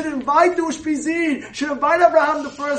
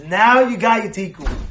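louder and clearer for someone who missed it; raised repeat of the line; 5 semitones lower, 3 dB louder than usual. Retold or imitated. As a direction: say it again louder so he hears.

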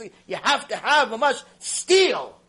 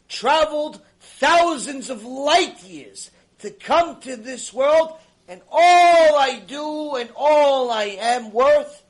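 rising outcry; 5 semitones higher, 7 dB louder, slower than usual. Retold or imitated. Climax of confession.

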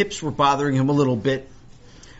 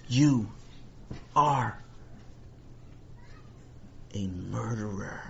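slow words with long dramatic pauses; drawn-out, ominous charge; grave accusation; 7 dB quieter, slower than usual. Acted.

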